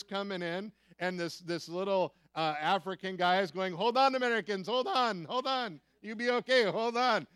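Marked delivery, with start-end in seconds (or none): 3.7-7.3 high, loud call over the storm; laughing at the scared Americans while shouting; cheerful shout. Retold or imitated. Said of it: "He's laughing at us".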